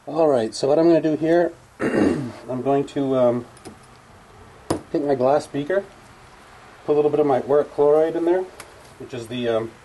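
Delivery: through a gas mask. Real, not acted. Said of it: "put on my, my gas mask".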